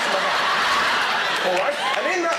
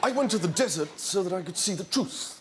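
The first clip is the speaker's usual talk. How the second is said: Charles; 3 semitones lower than usual. Acted. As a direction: play the dreamy prince. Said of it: "I'm Charles".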